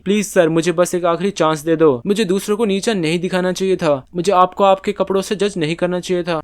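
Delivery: a touch of tearful begging. Acted. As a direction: beg the manager for one last chance. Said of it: "वो भीख मांगती रही".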